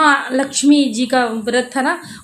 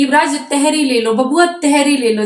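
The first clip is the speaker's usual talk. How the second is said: imitating neighbour; 3 semitones higher, 3 dB louder than usual. Mother imitating the neighbour coaxing her son, raised and pleading. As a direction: mimic her pleading with the boy. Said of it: "रुचि बोल रही थी".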